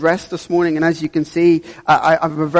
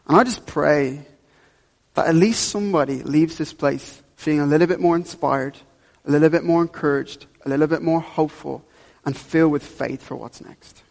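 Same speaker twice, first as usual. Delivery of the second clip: prayer. Acted. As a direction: pray over the people gently. Leads the church in prayer.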